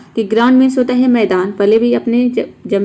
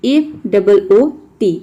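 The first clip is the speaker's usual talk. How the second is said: spelled out slowly; slower than usual. Shown as a demonstration. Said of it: "बेयर foot होता है B A R E".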